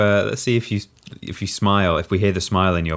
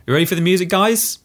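hyped announcer; 12 semitones higher, 4 dB louder than usual. Real, not acted. Hyping the music start.

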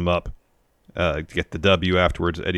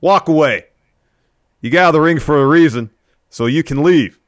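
louder, higher hammed-up heel taunt; mock promo shout; 9 semitones higher, 8 dB louder than usual. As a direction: bark it like a wrestling heel cutting a promo. Bully taunts Tommy, retold promo.

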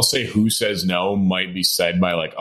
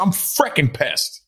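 slow, drawn-out tipsy grumble; 8 semitones higher, much slower than usual. Real, not acted. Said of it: "I'm a little tipsy".

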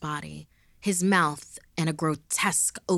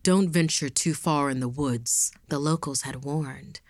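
poem recitation. Acted. Reads a rhyming poem.

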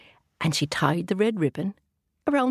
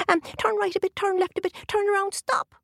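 leprechaun; 13 semitones higher than usual. A narrator's reading. Leprechaun gives directions.

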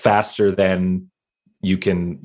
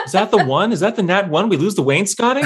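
laughing disbelief; 13 semitones higher, faster than usual. Real, not acted. Player laughing at wrecked wainscoting.

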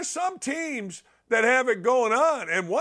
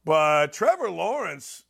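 ordinary talk

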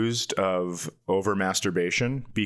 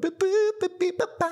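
squeaky beep-boop noises; high robot beeps. Pretend. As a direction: chirp it like a little robot.

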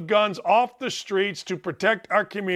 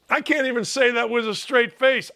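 ordinary talk, nothing marked

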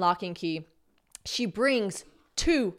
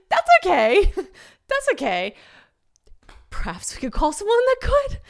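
high, laughing through forced politeness; mortified customer covering with a laugh; strained laughing politeness; 11 semitones higher, 6 dB louder than usual. Retold or imitated. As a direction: giggle it out, mortified.

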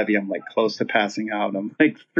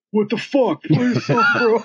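mock impatient crowd; 11 semitones higher, 4 dB louder than usual. Voices the confused crowd.

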